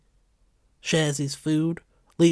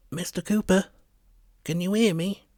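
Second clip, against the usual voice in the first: soft-spoken paramedic; 6 semitones higher, 4 dB louder than usual. A narrator's reading. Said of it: "He's got a soft-spoken voice".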